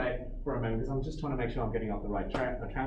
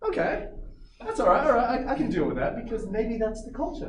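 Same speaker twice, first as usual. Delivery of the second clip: forced calm; 5 semitones higher than usual. Retold or imitated. Inner voice telling himself fine.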